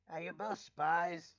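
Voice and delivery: drawn out, suspicious and loud; suspicious hothead voice; slow loud accusation. Acted. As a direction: demand it like an accusation. Rainbow accuses the newcomers.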